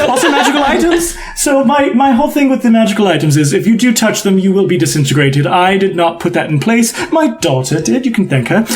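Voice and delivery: lightly voiced theatrical shopkeeper; flamboyant emporium host. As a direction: explain the rules with a showman's lilt. Host Tullus explains his shop.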